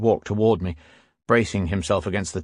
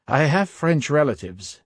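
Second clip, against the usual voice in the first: almost angry; 6 semitones higher than usual. A narrator's reading. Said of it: "I said, almost angry".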